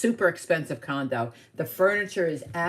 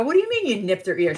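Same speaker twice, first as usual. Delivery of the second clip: retold disbelief; 5 semitones higher, 4 dB louder, faster than usual. Child questioning mom in retold story.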